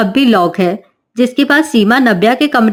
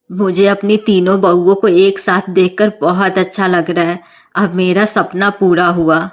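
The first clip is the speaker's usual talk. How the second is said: pleased mother-in-law; 4 semitones lower than usual. Acted.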